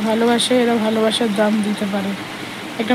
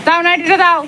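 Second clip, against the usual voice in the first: pet talk; 6 semitones higher than usual. Real, not acted. Asking the dog for the nightie.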